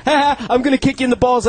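light, joking fake laugh into a tease; put-on jokey lightness; mock playful threat. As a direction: toss it off as harmless kidding. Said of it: "like, super light".

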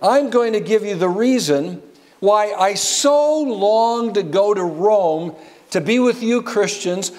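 preacher voicing Paul's eager plea. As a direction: speak as Paul longing to reach Rome. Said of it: "he says".

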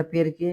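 পেরকে said clearly as "perke" with a hard k; Italian pronunciation. Shown as a demonstration. Teacher shows how to say perché, careful pronunciation. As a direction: model পেরকে for the class, k not ch. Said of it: "উচ্চারণটা পেরকে".

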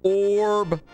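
high, loud shout of one word; loud, high celebratory yell; triumphant call-out. Real, not acted. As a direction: belt it out as a victory cry. Calls out on clearing level.

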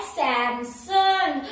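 सैमसंग slowly, as SAM-SON; drawn-out brand name. Shown as a demonstration. Teacher introducing the first brand name, drawn out. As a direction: stretch both syllables of सैमसंग. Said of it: "पहला वाला brand का जो name है".

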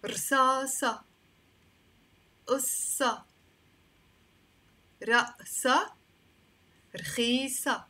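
رصاصة، قصة، رأسة، رخيصة each ending in open "sah"; teacher pronouncing رصاصة، قصة، رأسة، رخيصة one by one with "ah" endings; final "a" sound. Shown as a demonstration. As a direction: model رصاصة، قصة، رأسة، رخيصة carefully as "rsasa, assa, ra'sa, rkhisa". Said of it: "All of them are a".

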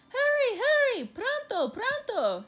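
high, loud, pressing calls; urgent cry. A narrator's reading. Mother rushing her children from the kitten, crying out urgently. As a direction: hurry them along in alarm. Mother rushes family from cat.

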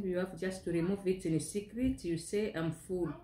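chewing between words; speaking while eating; talking with mouth full. Real, not acted. Seen 4: puts food to mouth at 0.1 and 1.2, talks between bites.

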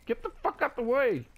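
furious shout at a teammate; angry yell. Real, not acted. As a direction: shove him aside with your voice. Teammate blocking his path.

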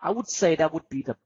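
unhurried teacher demo, words spaced out; calm precise demo answer, slow; slow, clear model answer. Shown as a demonstration. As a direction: speak slowly and precisely like an exam model. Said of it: "เห็นไหม? ไม่ต้องเร็ว".

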